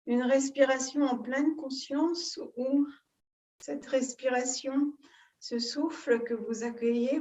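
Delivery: calm guided breathing, long pauses between phrases; soothing yoga-teacher guidance, phrase by phrase; guided meditation. Real, not acted. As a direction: lead them gently into breath awareness, unhurried.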